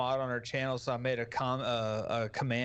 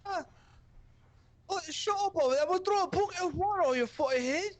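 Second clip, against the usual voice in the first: mocking Apex Princess; 3 dB louder, faster than usual. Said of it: "she's like".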